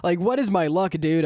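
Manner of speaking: words bubbling through real laughter; laughing disbelief. Real, not acted. To the camera after the cop leaves, laughing in disbelief. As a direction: laugh at your own terrible luck. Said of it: "I just start laughing".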